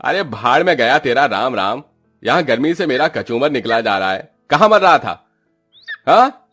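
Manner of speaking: loud, high bullying outbursts; hammed-up irate boss; angry landlord's scolding. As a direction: berate the labourers, building to shouted orders. Landlord berates late labourers.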